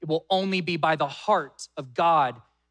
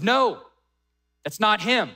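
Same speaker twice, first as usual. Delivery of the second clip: firm retold refusal; 3 semitones higher than usual. God firmly rejects Samuel's choice.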